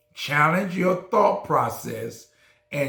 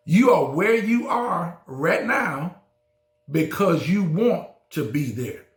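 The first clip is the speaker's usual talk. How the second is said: repeated louder and higher; 3 semitones higher than usual. Shown as a demonstration. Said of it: "I said it".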